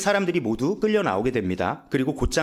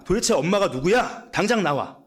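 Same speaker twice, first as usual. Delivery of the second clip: irritated demand; 4 semitones higher than usual. Retold or imitated. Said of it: "보위부 위원이 짜증을 냅니다".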